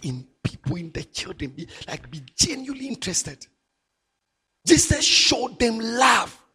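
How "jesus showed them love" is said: preaching shout. Real, not acted. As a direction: proclaim it slowly to the congregation. Preacher drives home the point.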